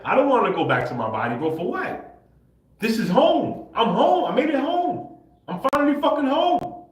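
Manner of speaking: overjoyed, almost shouting home; ecstatic. Real, not acted. Ecstatic memory of being home.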